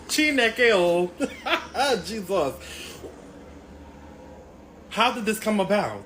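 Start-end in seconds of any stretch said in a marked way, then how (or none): 0.0-2.5 loud laughing exclamations, louder and higher; laughing in disbelief. Real, not acted. Fan laughing at the feud news, loud disbelieving laughter. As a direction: crack up at the absurd news.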